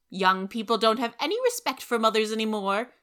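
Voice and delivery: put-on loud, offended old lady; huffy. Rachel huffing at Anne before stalking out. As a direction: sniff and huff. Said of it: "she said".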